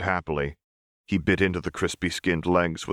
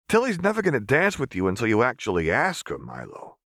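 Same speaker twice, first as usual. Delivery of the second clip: put-on higher, needling boy voice; pointed teasing; 6 semitones higher than usual. A narrator's reading. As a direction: jab at him knowingly. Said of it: "Clagger said pointedly".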